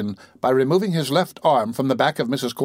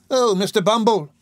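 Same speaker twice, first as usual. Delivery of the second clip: higher-pitched distressed exclamation; crying out; 8 semitones higher than usual. A narrator's reading. Upset lady appealing to the beadle, crying out. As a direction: cry out to him in dismay. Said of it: "cried the lady".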